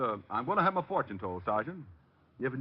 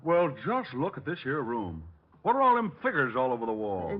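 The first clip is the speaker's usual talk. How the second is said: hillbilly put-on. Detective in disguise calling the psychic, country accent. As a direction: play the hog farmer yokel.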